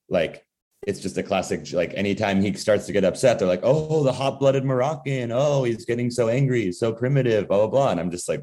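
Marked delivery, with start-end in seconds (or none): 3.6-7.9 higher-pitched mock of condescending relatives; sing-out parody of casual prejudice; mocking imitation. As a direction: imitate them patronizingly, pitched up. Relatives mocking Moroccan cousin, retold.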